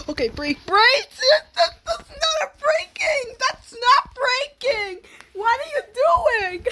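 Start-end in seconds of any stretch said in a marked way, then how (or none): 1.6-6.6 high, loud scolding; nagging backseat driver. Real, not acted. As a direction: complain at the driver. Scolding the bad braking.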